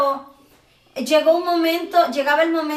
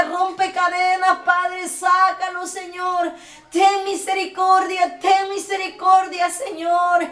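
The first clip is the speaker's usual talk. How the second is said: slow, higher pleading cry; tearful pleading prayer; 3 semitones higher, slower than usual. Retold or imitated. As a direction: beg for mercy, drawn out. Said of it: "Yo le decía". (súplica lenta y aguda)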